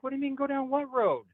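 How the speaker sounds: high-pitched mock bafflement; retold baffled reply. Man answering the group members, high and incredulous. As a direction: ask it back in high, incredulous disbelief. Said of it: "And I'm like".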